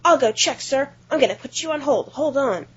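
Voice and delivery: obliging phone-clerk voice; helpful clerk. Retold or imitated. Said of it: "And I said".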